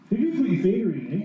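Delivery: to his brother after the engine stopped, shocked and loud; shocked outcry. Retold or imitated. Asking his brother if he stuck his finger in, shocked outcry.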